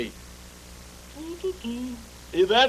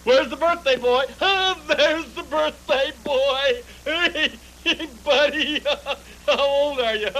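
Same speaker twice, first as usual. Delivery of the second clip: high, slow, laughing coo; gushing greeting in a much higher voice; cooing welcome; 9 semitones higher, 4 dB louder, slower than usual. Acted. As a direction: fuss over the birthday boy. Greeting the birthday boy.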